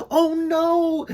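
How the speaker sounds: high, loud startled yelp; frightened bee yelping after his crash. A narrator's reading. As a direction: cry out as you hit the ground. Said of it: "he yelped in a helpless heap".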